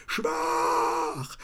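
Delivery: whispered demonic mock; demon taunt. A narrator's reading. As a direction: hiss it like a spirit.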